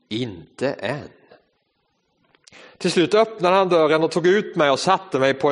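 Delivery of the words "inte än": softer, low and calm; calm master. Acted. Potter gently answering the complaining teacup, soft and calm. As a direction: quietly tell the cup to wait.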